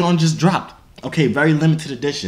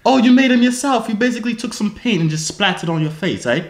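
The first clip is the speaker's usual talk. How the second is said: higher-pitched put-on British; mock-British with "eh" on the end; British accent; 6 semitones higher than usual. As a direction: tease her in a fake British accent. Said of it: "why you talking like that?".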